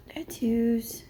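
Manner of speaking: voiceless whispered word. Real, not acted. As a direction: breathe the word out.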